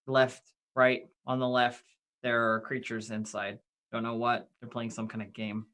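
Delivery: low, soft aside to companions; hushed party report. Acted. Rogue reporting creatures behind the door to companions, hushed. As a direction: report back quietly, keep it low. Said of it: "I comment to the others".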